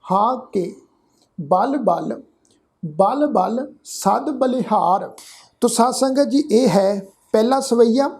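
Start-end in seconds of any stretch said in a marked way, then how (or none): 1.4-5.1 ਬਲ ਬਲ, short rest, ਬਲ ਬਲ ਸਦ ਬਲਿਹਾਰ; pause after ਬਲ ਬਲ. Shown as a demonstration. Teacher showing the congregation the rest after ਬਲ ਬਲ. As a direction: break after the first ਬਲ ਬਲ. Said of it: "ਵਿਸ਼ਰਾਮ ਚਿੰਨ੍ਹ ਲਾਵਾਂਗੇ".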